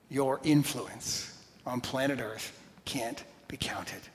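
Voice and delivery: whispered softly. Real, not acted. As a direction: let the words fall into a hush. Preacher hushes the point.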